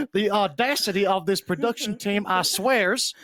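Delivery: put-on scolding of the crew; mock outrage. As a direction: play indignant in a silly voice. Mock scolding production in accent.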